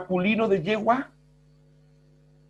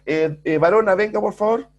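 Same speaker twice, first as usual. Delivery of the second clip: mildly raised call to a student; teacher pretending to call a student across the classroom, a touch louder; mock calling out; 3 semitones higher, 4 dB louder than usual. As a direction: call her over a bit louder, half joking. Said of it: "que yo en la sala de clase le dijera".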